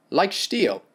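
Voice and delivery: German doctor boasting; German accent. Acted.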